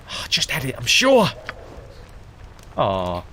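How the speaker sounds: hammed-up old rogue rambling for a bottle; lightly voiced old drunk; old drunk Gorvin. Gorvin continues.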